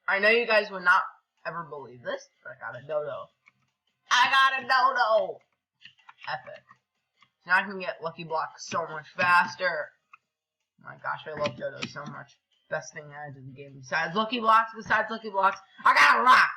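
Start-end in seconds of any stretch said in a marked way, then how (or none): 4.1-5.4 high, loud triumphant announcement; excited shout. Real, not acted. Gamer telling viewers about a dodo, excited shout. Repeats the news, exclaiming. 15.8-16.5 high, loud burst of surprise; astonished shout. Real, not acted. Gamer receiving a rock, astonished shout.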